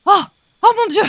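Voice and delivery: seance medium. Acted. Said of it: "On dirait qu'elle entre en transe".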